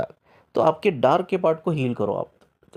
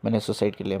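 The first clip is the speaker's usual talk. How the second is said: put-on grieving old man; 4 semitones lower, 3 dB quieter than usual. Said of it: "तो वो रो, रो पड़े".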